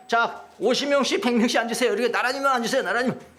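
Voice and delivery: acted brisk instructions to a multitude; organizing a crowd. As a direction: usher a crowd into rows. Acted disciple seating the crowd.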